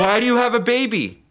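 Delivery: high-pitched baffled demand; acted incredulity. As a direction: demand an answer in mock shock. Crew confront her about baby.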